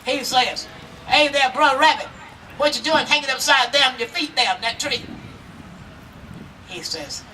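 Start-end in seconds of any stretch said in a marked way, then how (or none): 1.1-5.0 higher and louder hearty greeting; hearty bear call. Acted. Bear calling out to the hanging rabbit, higher hearty greeting. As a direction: call out big and friendly across the road.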